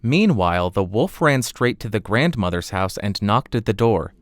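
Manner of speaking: usual speaking voice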